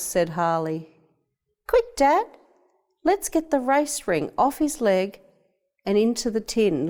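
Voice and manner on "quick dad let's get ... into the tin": high, hurried excitement; urgent excited boy. A narrator's reading. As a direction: rush Dad to clock the winner. Boy hurries to record race time.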